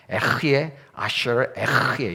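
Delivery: rasped throat h in 에흐예; guttural Hebrew pronunciation. Shown as a demonstration. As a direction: say 에흐예 아쉐르 에흐예 with a long scraped h in each 에흐예. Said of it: "되게 재밌는 발음이 나와요".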